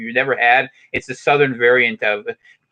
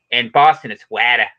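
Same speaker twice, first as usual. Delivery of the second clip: Boston accent; 2 semitones lower, 3 dB louder than usual. Shown as a demonstration. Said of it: "the way that people say the word".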